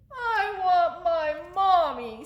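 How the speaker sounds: high, slow wailing owlet; Bill. Acted. Littlest owl missing mother, high drawn-out whine. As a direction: draw it out like a whining little one. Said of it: "said Bill".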